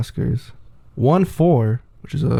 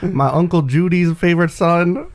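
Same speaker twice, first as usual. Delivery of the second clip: attempted Boston accent; 5 semitones higher than usual. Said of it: "my epic accent".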